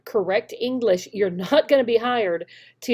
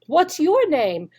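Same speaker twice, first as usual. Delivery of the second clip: higher, slow, louder teacher prompt; slow clear question; 4 semitones higher, 4 dB louder, slower than usual. Shown as a demonstration. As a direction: ask it slowly like to a young learner. Teacher demos a question to students.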